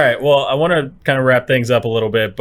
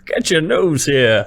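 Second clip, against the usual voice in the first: put-on slow, higher old-timey newsie; 5 semitones higher, 4 dB louder, much slower than usual. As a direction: shout it like a street-corner paper seller. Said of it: "Do it right now".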